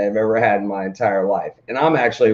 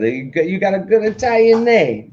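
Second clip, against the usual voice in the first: laughing shout; 9 semitones higher than usual. Retold or imitated. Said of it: "that's what she said".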